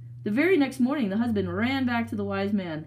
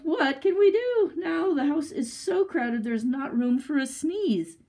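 weeping plea; 6 semitones higher than usual. A narrator's reading. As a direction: wail it out, drawn out at the end. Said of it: "he wept".

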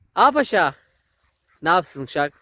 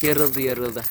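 tender pity; 5 semitones lower than usual. Real, not acted. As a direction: coo over the worn-out dog. Tender over tired dog.

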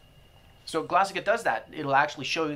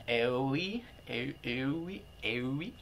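puzzled reading; 6 dB quieter, much slower than usual. Retold or imitated. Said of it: "I don't know how to pronounce that".

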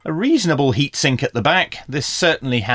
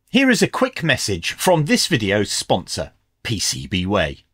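sponsor read; 2 semitones lower than usual. Acted. Reads a sponsor message.

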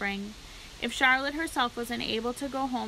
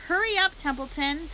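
high, loud urgent cry; frantic shout; 6 semitones higher, 4 dB louder than usual. A narrator's reading. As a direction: yell at him to hurry. Wilbur frantic.

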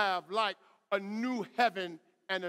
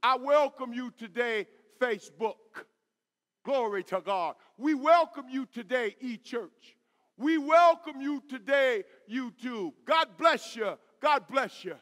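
raised, projected pulpit greeting; preacher's rousing welcome; 4 semitones higher, 6 dB louder than usual. Real, not acted. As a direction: welcome each congregation with rising energy. Greets online congregations from the pulpit.

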